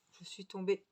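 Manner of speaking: talking through hiccups; hiccuping mid-sentence. Real, not acted. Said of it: "Excusez-moi, j'ai le hoquet".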